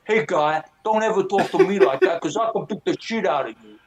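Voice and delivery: lightly voiced tough guy threat; a hint of a wiseguy warning; mock tough guy. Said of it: "and said".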